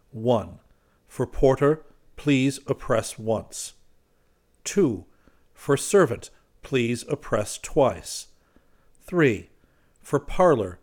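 measured, item-by-item sign reading; reading a notice aloud. A narrator's reading. Narrator reads the gateway notice in English, deliberate and slow. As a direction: read out each printed instruction, slowing on the second half.

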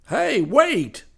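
loud high call; preacher calling out. Acted. Preacher calling after the car, loud and high. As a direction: shout after him to wait.

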